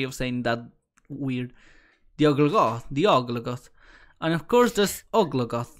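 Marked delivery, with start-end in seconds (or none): 2.2-5.8 a hint of a Swedish accent; light Swedish lilt on the names. Real, not acted. Player reading monster names to friend, faint Swedish accent. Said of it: "You sounded so Swedish for a moment".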